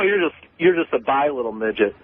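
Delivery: normal talking voice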